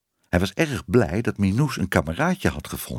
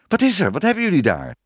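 raised, higher-pitched startled call; uitroepend; 10 semitones higher, 3 dB louder, faster than usual. A narrator's reading. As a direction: call out the question sharply. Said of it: "riep Tibbe". (uitgeroepen, hoge vraag)

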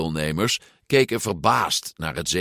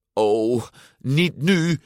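high-pitched whiny lament; wailing; 5 semitones higher, much slower than usual. A narrator's reading. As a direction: moan it in high-voiced dismay. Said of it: "jammerde Luca".

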